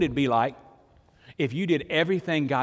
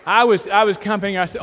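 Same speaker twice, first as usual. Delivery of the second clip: ordinary delivery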